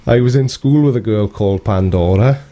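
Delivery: put-on Welsh-accented quote, breaking into a laugh.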